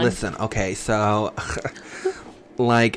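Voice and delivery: hammed-up college girl storytelling; put-on college girl voice. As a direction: gossip like a mock college girl, pitch swinging. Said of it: "do your college girl voice".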